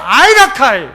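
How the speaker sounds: loud falling Gyeongsang 아이라카이; God saying no in Gyeongsang dialect. Retold or imitated. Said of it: "하나님은 뭐라고 해요?".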